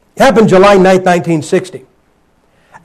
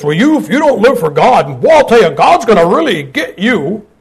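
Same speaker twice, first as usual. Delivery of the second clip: mock preacher warning. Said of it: "We always say this".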